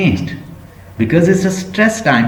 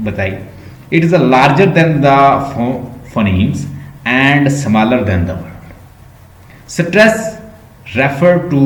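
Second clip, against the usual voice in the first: slowly dictating a textbook definition; slow dictation; much slower than usual. Acted. Teacher dictates definitions for students to copy down, slowly. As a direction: read each phrase out slowly for notes.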